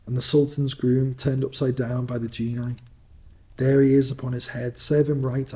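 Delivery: put-on gleefully pointing out old favourites; excited. Scrooge excitedly recalling storybook figures.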